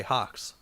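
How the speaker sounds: hawks with an open AH, like HOCKS; common TV pronunciation. Shown as a demonstration. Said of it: "a lot of people say".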